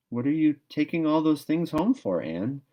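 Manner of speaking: put-on bright curious girl; young girl voice. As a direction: ask like an eager schoolgirl. Diana's voice in story.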